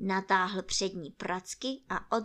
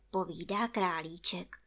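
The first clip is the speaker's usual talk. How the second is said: plain reading voice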